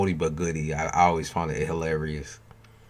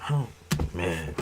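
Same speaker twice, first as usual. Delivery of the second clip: usual speaking voice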